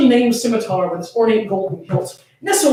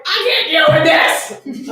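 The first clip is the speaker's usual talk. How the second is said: mock exasperation; 7 semitones higher than usual. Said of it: "an approximation".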